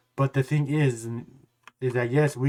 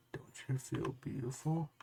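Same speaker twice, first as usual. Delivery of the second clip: slow, much softer creepy coo; imitating a creepy tone; 17 dB quieter, slower than usual.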